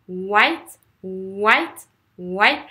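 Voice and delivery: "white" gliding from a long oo; open W. Shown as a demonstration. Teacher drilling the W, "white" with an open rounded start. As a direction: lips forward on "white", then open up. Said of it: "c'est ouvert".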